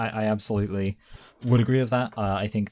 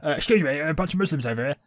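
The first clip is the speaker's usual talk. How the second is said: higher-pitched put-on French accent; mock French accent; 6 semitones higher than usual. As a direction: play a comic Frenchman with a silly accent. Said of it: "some, some French accents".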